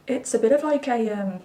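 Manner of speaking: talking through hiccups; hiccuping. Real, not acted. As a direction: hiccup catching the words. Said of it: "oops, sorry, I'm hiccuping".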